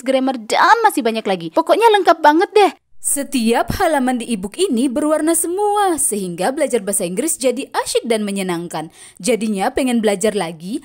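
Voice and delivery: upbeat promo read, lightly pushed. Acted. Teacher plugs her e-book to viewers, lively ad read. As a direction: sell the e-book to learners with bright energy.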